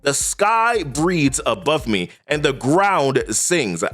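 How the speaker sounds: a hint of a solemn king declaiming; solemn king's vow. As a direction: intone it like a king reborn. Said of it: "he begins by saying to himself".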